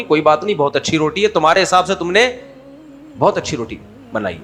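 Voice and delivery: calm, understated reassurance; gentle mother-in-law. Acted. Mother-in-law reassuring her new daughter-in-law about bread, gently. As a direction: speak kindly and unhurriedly, soothing a beginner. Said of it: "ساس بہو کو آرام سے کہہ دیتی ہے".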